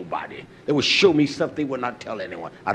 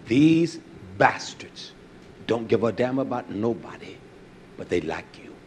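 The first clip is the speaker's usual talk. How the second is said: slow, weighty imitation of the boss; imitating the manager; 3 semitones lower than usual. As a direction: drag out these bastards like the old manager did. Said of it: "That's how he said it".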